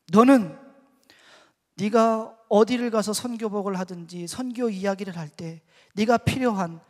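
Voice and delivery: building from loud to high and very loud; retold reproach at preaching force; forceful rebuke. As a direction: drive the charge home, phrase by phrase.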